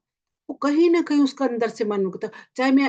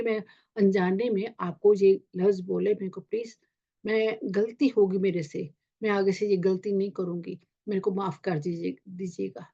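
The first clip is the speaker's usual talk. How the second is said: sincere apology; 2 semitones lower than usual. Pretend. Bedtime apology to a hurt friend.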